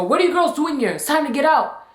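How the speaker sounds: retold angry teacher ordering them out; mildly imitating a cross teacher; mad voice. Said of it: "in a mad voice".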